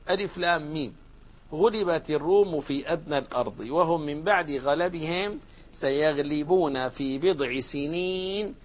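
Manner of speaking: slow, measured recitation of the verse; Quran recitation. Acted. Teacher recites the verse to students, slow chanted recitation. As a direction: draw out each phrase as in tajweed.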